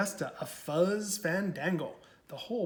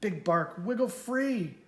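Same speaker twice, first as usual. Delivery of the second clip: shouted; 4 semitones higher than usual. Acted. Prairie dogs calling up to Big Bark, mild shout. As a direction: call up to him, lightly. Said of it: "the prairie dogs shouted".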